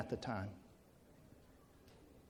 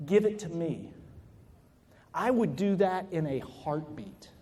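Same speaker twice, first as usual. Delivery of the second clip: tender and sincere; 3 dB quieter than usual. Retold or imitated. Dad tells daughter he'd take disease.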